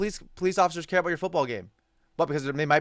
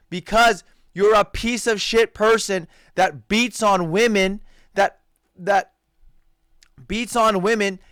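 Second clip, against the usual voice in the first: louder, slow scolding; angry rant; 2 semitones higher, 5 dB louder, slower than usual. Real, not acted. Vlogger scolding the athlete he despises, louder and slow. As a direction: drive each word home in disgust.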